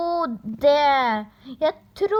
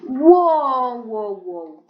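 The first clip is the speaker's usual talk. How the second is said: surprised; 2 semitones lower, 6 dB louder, slower than usual. Real, not acted. Reacting to the video.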